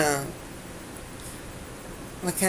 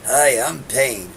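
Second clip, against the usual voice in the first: Pain; 4 semitones lower, 3 dB louder, slower than usual. Retold or imitated. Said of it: "we used to have two guys".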